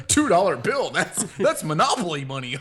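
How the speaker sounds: loud, high mock-dim exclamation; hammed-up dimwit scoffing through laughter; dumb thief. Thieves finding a two dollar bill, mock dumb and amused. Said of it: "they're just so dumb".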